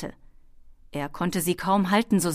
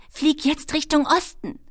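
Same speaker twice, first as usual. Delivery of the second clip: high, raised kobold command; calling out; 10 semitones higher, 5 dB louder than usual. A narrator's reading. Kobold navigator sends the dragon east, calling high and loud. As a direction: call an order to the one steering. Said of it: "rief Schwefelfell ihm zu".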